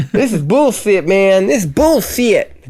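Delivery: high lisping big-dog voice. Pretend. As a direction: lisp it like a tough dog. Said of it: "does he talk with a lisp".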